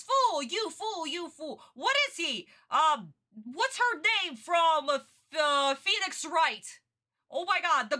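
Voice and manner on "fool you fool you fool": mock villain insult, high and drawn out; sling it like a repetitive cartoon villain; Merrick. Streamer imitating villain's favorite insult, mock scornful. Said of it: "all Merrick is saying is".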